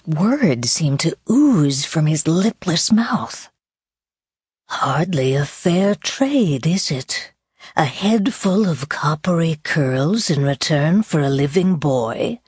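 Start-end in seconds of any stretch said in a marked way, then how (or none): 4.7-12.4 sinister villain voice. Acted. Sinister stranger speaks.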